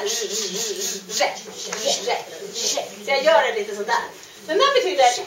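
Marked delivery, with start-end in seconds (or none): 0.0-2.2 "Re" with a voiced, buzzing r; voiced r sound. Shown as a demonstration. Teacher shows the class the voiced r sound. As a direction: stretch the voiced r in "re". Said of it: "vi ska ha lite tonande så här".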